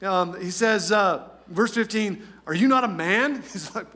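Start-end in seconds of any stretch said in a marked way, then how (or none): 2.4-3.4 mock taunt, rising on the question; a touch over the top, needling him. David questioning Abner's manhood, taunting. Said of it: "a little bit over the top and taunting".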